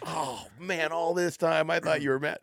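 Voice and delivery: high, amazed mock voice; dad voicing his son's surprised relief, pitched high; mock realization. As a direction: play the kid suddenly getting it.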